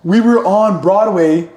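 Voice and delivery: can barely get it out for laughing; laughing about the socks on Broadway. Real, not acted. Telling funny socks story.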